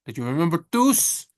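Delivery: ordinary talk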